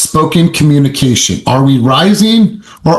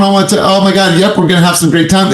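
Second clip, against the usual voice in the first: higher, one-note singsong delivery; same monotone; 6 semitones higher, faster than usual. Shown as a demonstration. Coach mocking flat monotone talk, high and unvaried. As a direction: keep every word on one level pitch. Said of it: "you shouldn't be like this".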